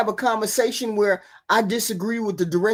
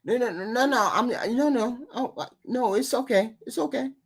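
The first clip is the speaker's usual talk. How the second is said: laughing; 4 semitones higher, 5 dB quieter than usual. Real, not acted. Laughs off an interruption.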